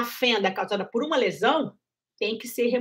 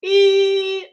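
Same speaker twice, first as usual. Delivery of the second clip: breathy voice demo; 7 semitones higher, 8 dB louder than usual. Shown as a demonstration. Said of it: "a prega vocal fica meio abertinha".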